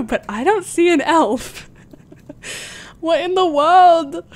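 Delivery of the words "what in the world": baffled. Real, not acted. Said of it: "You're making me so mad".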